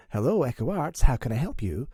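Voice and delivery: properly pronounced transatlantic receptionist; mom's phone voice. Retold or imitated. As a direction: answer with a put-on, proper telephone voice. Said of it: "she has a phone voice".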